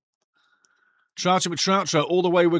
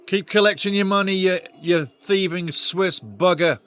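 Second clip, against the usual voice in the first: louder, higher jeer, dragged out slowly; mock jeer; 3 semitones higher, 4 dB louder than usual. Real, not acted. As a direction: taunt the money-grabbing boss. Jeering FIFA boss.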